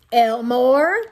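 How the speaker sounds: exasperated appeal. Acted. Mother appeals to father.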